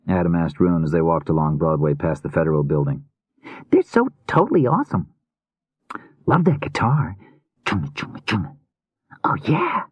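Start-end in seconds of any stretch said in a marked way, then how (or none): 3.7-9.8 put-on high, youthful boy voice, gushing; enthusiastic boy. A narrator's reading. Adam raves to Rune about the band, enthusiastic boy. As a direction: play a music-mad kid, pitched high.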